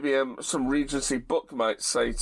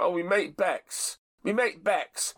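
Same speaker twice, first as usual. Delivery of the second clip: thick and common; 3 semitones higher than usual. Retold or imitated. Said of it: "thick and common".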